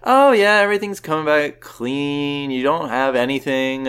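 upbeat high opening, settling down; clinic caller. Retold or imitated. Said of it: "And she was like".

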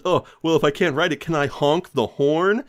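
high, loud mocking biker; big biker voice. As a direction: taunt like a big bully biker. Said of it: "the big guy says".

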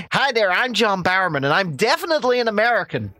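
hammed-up American accent, a bit quick; mock American accent. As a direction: mimic a celebrity putting on an American accent. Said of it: "that was an American accent".

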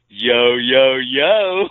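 rising mock hype call, breaking into a laugh; exaggerated hype greeting. Shown as a demonstration. Co-host repeats his mock greeting on request, rising hype. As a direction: punch out each yo, lifting the last. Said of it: "Say that one more time".

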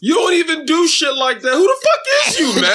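high-pitched incredulous yell; mock outrage. Comic calls out his co-host for acting like a stranger, mock outrage.

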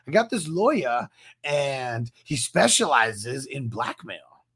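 put-on rough stab at an Australian accent, drawn out at the end; badly faked Australian, dropping the r in lawyer; attempted Australian accent. Retelling a TV character who got a lawyer, attempted Australian accent. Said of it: "I can't do the Australian accent".

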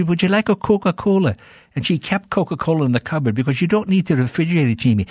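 a hint of a genteel aunt; sweet old aunt. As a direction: offer it like a dainty Scottish aunt. Scottish aunt offering Coke.

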